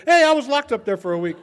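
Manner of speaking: loud, high, laughing through it; laughing reply. Real, not acted. Telling his friend about Saint George jail, laughing. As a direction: crack up while blurting it out.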